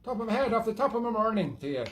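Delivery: light put-on Irish brogue, rambling tipsy patter; lilting mock Irish, half-hearted and drifting; Irish accent. Host rambling to viewers about Guinness, in a mild put-on Irish accent. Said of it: "a little bit of Irish still in there".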